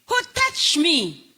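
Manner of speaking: slow, searching question; Jesus asking. Retold or imitated. Jesus asking the crowd slowly who touched him. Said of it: "sabi ni Jesus".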